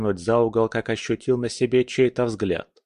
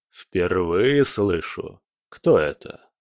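притворное неведение; much slower than usual. Acted. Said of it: "сделал вид, что ничего не понимает".

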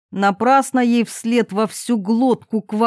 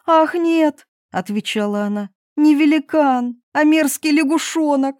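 higher princess voice with disgust; a hint of a squeamish young princess; 6 semitones higher than usual. Princess telling her father about the frog.

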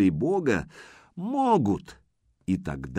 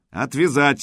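sharp order, raised voice; commanding shout; 4 semitones higher, 4 dB louder than usual. Acted. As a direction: bark the command. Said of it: "скомандовал своим Путята".

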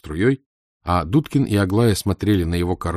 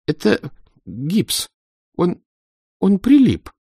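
babbled; 10 semitones higher, slower than usual. A narrator's reading. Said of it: "пролепетала Аглая".

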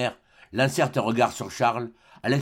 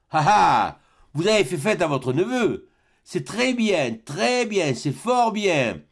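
a cold miser feigning good cheer, drawn out at the end; the miser greeting his family's feast with mock praise; sly old miser; 5 semitones higher, slower than usual. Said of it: "dit-il sans bégayer".

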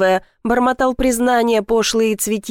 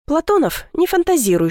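higher sharp hushing rebuke; 8 semitones higher than usual. A narrator's reading. Heroine hushing Platonov's fantasies, higher and sharp. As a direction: cut him off with a shush. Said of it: "шикнула я".

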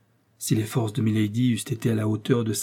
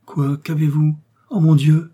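higher, louder startled exclamation; alarmed; 4 semitones higher, 6 dB louder than usual. A narrator's reading. Novice startled by Milady's reaction, alarmed. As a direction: build to a louder cry of alarm.

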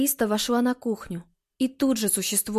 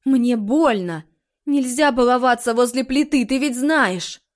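scolding; 6 dB louder than usual. A narrator's reading. Mother scolds daughter after burn.

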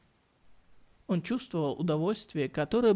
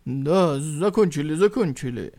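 hurried loud reply; 6 dB louder than usual. Acted. Warriors hurriedly answer.

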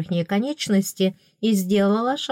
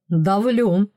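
deadpan; 4 dB louder than usual. A narrator's reading. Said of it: "совершенно серьёзно ответил".

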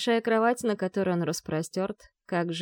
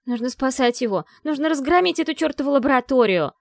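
louder, higher fierce demand; furious urging; 6 semitones higher, 7 dB louder than usual. A narrator's reading. Vi demanding they storm the lab, furious. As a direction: rage for action. Vi frantic, won't calm down.

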